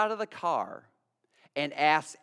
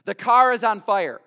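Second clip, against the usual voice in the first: alarmed text read out; 5 semitones higher, 11 dB louder than usual. Retold or imitated. Pastor reading a congregant's text, alarmed.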